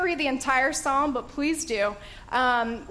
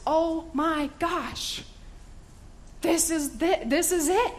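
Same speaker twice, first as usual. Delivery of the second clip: higher and slow, dawning awe; awed realization; 5 semitones higher, slower than usual. Pretend. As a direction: let it dawn on you slowly, higher. Listener realizing the prophecy.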